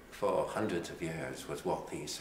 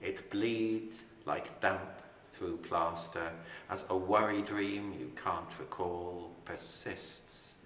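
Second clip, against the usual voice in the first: poem reading. Acted. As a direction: let each line settle before the next. Poet reads the stain poem.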